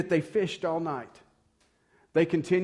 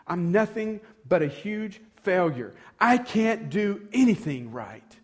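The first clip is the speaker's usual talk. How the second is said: louder and drawn out, a man cracking; slow anguished outburst; 4 semitones higher, 4 dB louder, slower than usual. Retold or imitated. Peter after a fishless night, slow louder anguish. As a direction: let it burst out slowly in frustration. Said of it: "I can imagine something like this going".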